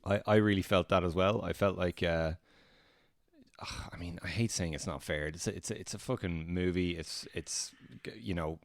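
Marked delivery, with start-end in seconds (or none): 3.6-8.6 hushed, breathy half-whisper. Real, not acted. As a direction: keep it down, whisper. Hushed so as not to wake guests.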